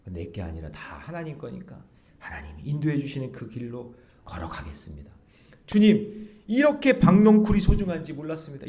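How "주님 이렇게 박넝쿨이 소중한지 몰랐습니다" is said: higher, louder fervent prayer; heartfelt confession. Acted. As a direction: confess it with fervor. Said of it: "이런 고백이 나와야죠". (높고 크게 간절히 고백하듯)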